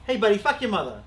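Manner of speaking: Boston tough guy, lightly done; a touch of Wahlberg Boston; Boston accent. Retold or imitated. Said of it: "the Marky Wahlberg mother".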